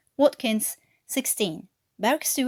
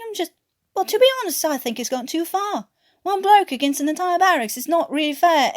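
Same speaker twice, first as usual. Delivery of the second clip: higher and louder, pressing the point; exasperated pleading; 8 semitones higher, 5 dB louder than usual. Acted. Newkirk to silent Watkins, higher exasperated pleading. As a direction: push harder, half pleading.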